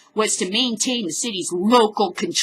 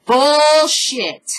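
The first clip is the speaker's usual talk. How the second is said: shouted bullshit, louder each time; loud angry bullshit; 3 semitones higher, 7 dB louder than usual. Real, not acted. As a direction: bark it out at the end. Ranting over news quote.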